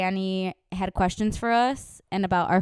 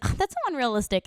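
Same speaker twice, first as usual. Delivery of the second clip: higher-pitched imitation of a picky critic; mock nitpicking; 6 semitones higher than usual. Imitating Liz as she criticizes movies, mock nitpicking. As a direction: lightly mimic a complaining friend.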